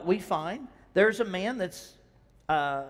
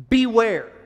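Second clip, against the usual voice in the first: a loud, sharp warning; warning cry; 2 semitones higher, 9 dB louder than usual. Shown as a demonstration. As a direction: call it out like a warning to the crowd. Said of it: "Here's what we have to beware of".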